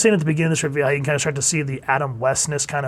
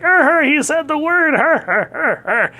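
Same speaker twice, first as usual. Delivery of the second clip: much higher and louder, slow, giggling her her; giggly word of the day; 13 semitones higher, 5 dB louder, slower than usual. Retold or imitated. Reviewer mocking the repeated Big Daddy, giggling high. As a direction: tease it like a kid snickering at a word. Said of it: "I was like".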